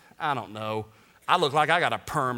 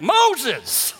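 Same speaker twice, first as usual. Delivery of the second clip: loud, higher-pitched yelp of shock; startled exclamation; 9 semitones higher, 7 dB louder than usual. Acted. Visitor finds a stranger in the tomb, startled yell. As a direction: blurt it out in mock fright. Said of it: "we would have been like".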